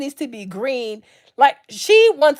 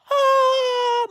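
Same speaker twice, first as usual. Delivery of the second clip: high, drawn-out comic cry; mock anguished wail; 13 semitones higher than usual. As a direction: wail like a dad in comic despair. Imitating dad's pained inner cry.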